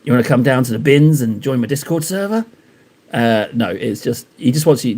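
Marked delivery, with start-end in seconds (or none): 0.0-2.4 lightly voiced Dark. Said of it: "He's like".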